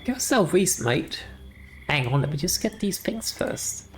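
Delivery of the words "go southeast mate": ghostly gardener voice. Acted. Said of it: "the ghostly voice of a headless gardener".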